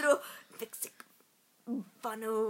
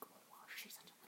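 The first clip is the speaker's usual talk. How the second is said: quiet, slow witch curse; witch's whisper; 26 dB quieter than usual. Shown as a demonstration. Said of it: "slow and, like, quiet".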